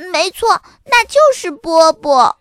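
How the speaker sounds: high, loud, emphatic yes; emphatic confirmation. Acted. Sister confirms to dad it is that dog, emphatic.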